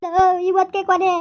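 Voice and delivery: wife threatening her husband with suicide; threatening young wife. Acted. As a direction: warn him you'll jump in the well. Wife threatens to drown herself.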